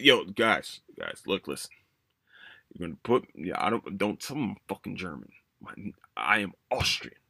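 low, gruff Austrian accent, lightly hammed; mock Arnold Austrian accent. Reviewer mocks Arnold's repeated lines in an Austrian accent. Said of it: "We're used to an Austrian accent".

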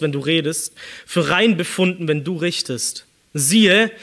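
measured, declamatory psalm reading; solemn scripture reading. Acted. Preacher reads Psalm to congregation, solemn and declamatory. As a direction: read the psalm like a prayer of confession.

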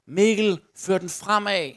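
loud, urging dad from the touchline; father calling out. Acted. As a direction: call out to your kid on the pitch. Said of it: "Så råber din far pludselig".

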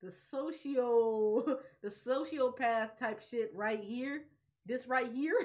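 slow, laughing commentary; laughing disbelief. Retold or imitated. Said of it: "And I was like".

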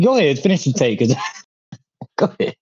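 laughing. Real, not acted. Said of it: "I can hear the smile in your voice".

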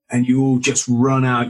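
usual speaking voice

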